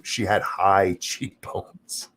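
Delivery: drawn out slowly through a laugh; slow laughing mockery. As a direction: laugh at the excuse while you stretch it out. Repeats the excuse while laughing.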